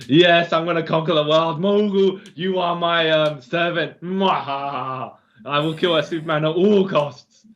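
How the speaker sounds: hammy Doctor Doom villain, lightly voiced; sneering panto villain. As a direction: gloat like a cartoon supervillain. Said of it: "goes full on, like, as though he is Doctor Doom".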